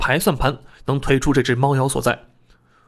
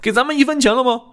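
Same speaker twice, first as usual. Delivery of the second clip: a touch higher, mildly worked-up complaint; lightly voiced aggrieved apprentice; 7 semitones higher than usual. A narrator's reading. Apprentice complains to a colleague about working unpaid, lightly aggrieved. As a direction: voice a colleague airing a grievance.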